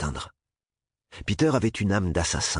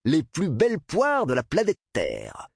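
giddy mocking laugh; hysterical laughter; 11 semitones higher, slower than usual. A narrator's reading. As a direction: laugh out the taunt, high and giddy. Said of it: "Un rire sonore, presque hystérique".

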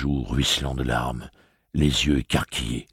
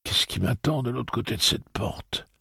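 calm; 8 semitones higher than usual. A narrator's reading. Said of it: "demanda tranquillement Eddie".

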